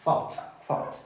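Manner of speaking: THOUGHT starting with a Spanish-from-Spain Z; Castilian Z sound. Shown as a demonstration. Teacher explains the Z of Spain, models th in THOUGHT. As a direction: say THOUGHT with tongue-between-teeth th. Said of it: "como la Z del español".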